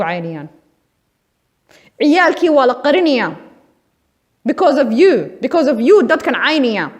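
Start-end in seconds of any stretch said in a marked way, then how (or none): 2.0-6.9 angry accusation. Real, not acted.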